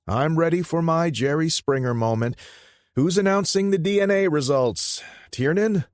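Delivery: high, loud cocky younger brother; Enzo's voice. Acted. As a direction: pitch him up high and loud, brash. Enzo joking about DNA results.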